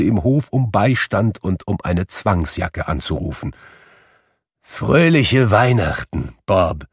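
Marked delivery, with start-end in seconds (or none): 4.6-6.8 earnest. Acted. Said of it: "mit einem Ernst".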